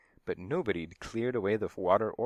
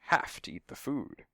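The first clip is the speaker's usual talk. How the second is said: higher, with "have" set firmly apart; emphatic; 5 semitones higher than usual. A narrator's reading. Stunt double refuses the cat slop, emphatic on "have". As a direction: spell out "have to eat the food" emphatically. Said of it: "he said emphatically".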